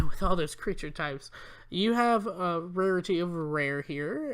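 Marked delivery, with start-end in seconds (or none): 0.0-1.3 laughing remark. Real, not acted. Amused at creature types.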